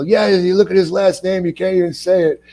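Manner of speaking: high-pitched imitation of a griping commenter; mock complaining fans. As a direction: pitch it up like a fan piling on. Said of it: "You know, they go".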